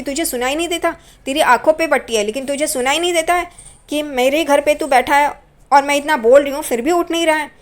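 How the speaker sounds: put-on scolding a child who sits in her chair; angry scolding. Aunt scolding boy in her chair.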